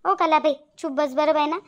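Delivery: losing her temper. Acted. Shantabai silences her friend who tries to calm her, angry. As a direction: cut her off with a touch of anger. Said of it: "आता माझी सटकली".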